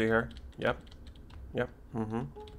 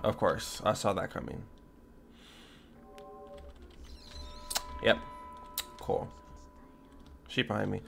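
hushed, much softer; whispering while hiding; 5 semitones lower, 16 dB quieter than usual. Real, not acted. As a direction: murmur it, hiding. Hiding from monster.

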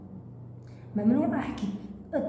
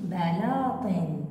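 بلاطن said slowly and falling as the final answer; slow confirming read; 3 semitones lower, much slower than usual. Shown as a demonstration. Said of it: "أقرأها من جديد،".

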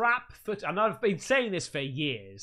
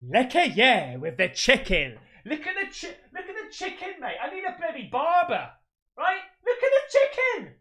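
high squeaky laughter through words; giggling so hard the voice climbs; laughing; 7 semitones higher than usual. Real, not acted. Laughing at the chicken.

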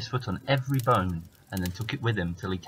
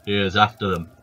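giant voice; 6 dB louder than usual. Acted. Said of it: "said the giant".

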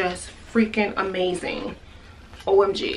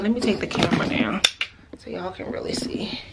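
whisper. Real, not acted. Adjusting camera, hushed aside.

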